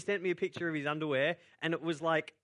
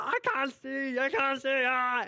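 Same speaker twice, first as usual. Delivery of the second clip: high, loud panicked voice; a boy who suddenly can't see; panicked cry; 12 semitones higher, 5 dB louder, slower than usual. Retold or imitated. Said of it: "he's like".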